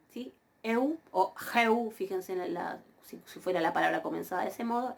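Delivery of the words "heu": "heu" with an aspirated h before eu; rough breathing. Shown as a demonstration. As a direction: start "heu" on a breathy h, then glide e to u. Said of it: "y con el espíritu".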